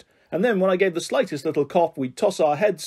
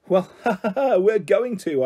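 mocking laugh; 5 semitones higher than usual. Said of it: "I said".

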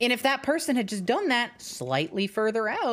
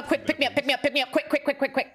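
urgent pleading; 7 semitones higher than usual. Real, not acted. Just died, begging teammate.

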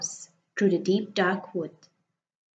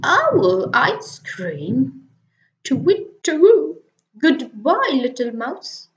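alarmed owl; 6 semitones higher, 6 dB louder than usual. Acted. Owl frightened by owl ice cream, high loud hoots. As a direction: hoot in panic.

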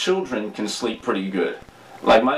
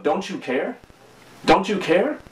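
a touch of wounded complaint, rising; hurt reproach; 5 semitones higher than usual. Retold or imitated. Disciples reproaching a sleeping Jesus, lightly hurt tone. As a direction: ask it like they feel ignored. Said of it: "there's almost a tone of".

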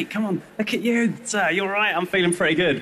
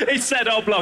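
laughing mockery; 5 semitones higher than usual. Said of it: "they all go".

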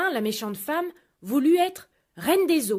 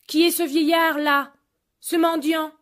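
haughty scorn; 5 semitones higher, 7 dB louder than usual. Acted. Queenly wife scorns old man.

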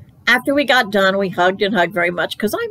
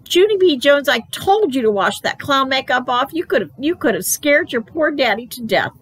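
higher, exasperated telling-off; scolding mother; 6 semitones higher than usual. A narrator's reading. Mother scolding child over clown makeup, high exasperated voice. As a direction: scold with a sharp hit on the name.

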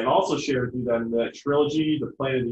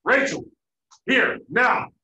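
loud, clipped dad order; loud stern dad call; stern dad command; 8 semitones higher, 7 dB louder, slower than usual. Retold or imitated. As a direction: command the kid like an angry father. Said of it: "Then Dad says".

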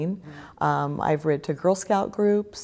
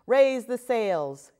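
slow, higher mock pirate order; commanding; 6 semitones higher, much slower than usual. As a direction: give the order like a tiny captain. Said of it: "command her little pirates".

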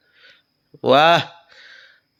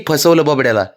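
laughing quote. Retold or imitated. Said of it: "ती म्हणली".

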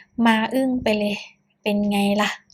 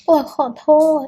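higher, louder tearful sob of sorry; sobbing apology; 5 semitones higher, 6 dB louder than usual. Acted. Crying boyfriend blurts sorry to the mother, sobbing. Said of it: "ร้องไห้เก่งอะไรขนาดนั้น".

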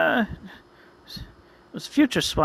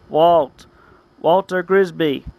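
calling out; 5 dB louder, slower than usual. Acted. Calling out to Walter.

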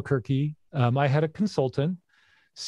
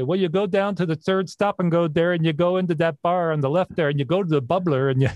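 imitated Upper Peninsula Michigan accent; joking Yooper talk, running on briskly; 3 semitones higher than usual. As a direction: give directions like a Yooper. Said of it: "Oh, Yoopers for the Upper Peninsula".

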